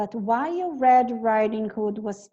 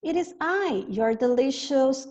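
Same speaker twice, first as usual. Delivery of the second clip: high-pitched voice; 3 semitones higher, 3 dB louder than usual. Acted. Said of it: "In high-pitched voice".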